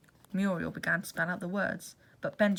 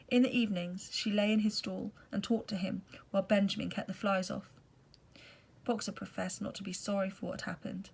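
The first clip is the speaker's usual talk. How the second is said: steady read-aloud narrator voice; story narration. A narrator's reading. Reader telling Boxer's illness, calm narration. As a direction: read it like a book to a class.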